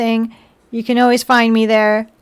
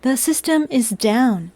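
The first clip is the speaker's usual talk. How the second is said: slow robotic announcement; slower than usual. Pretend. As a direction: say it like a broken machine. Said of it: "Robot voice is over".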